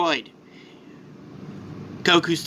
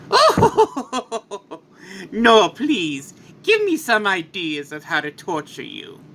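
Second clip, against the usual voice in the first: lightly voiced mocking villain; slower than usual. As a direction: taunt them with a light villain's chuckle. Villain gloats in acted story.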